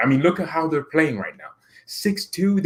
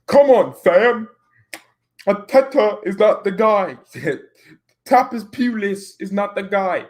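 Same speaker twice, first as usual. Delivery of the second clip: mock fan rant; 7 semitones higher than usual. Streamer mimicking Arsenal fans on AFTV, high mock rant. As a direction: wail it like an outraged football fan.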